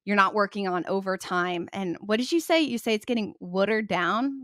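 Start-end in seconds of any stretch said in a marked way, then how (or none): 2.6-4.4 New York accent. Real, not acted. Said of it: "What is that New York accent?".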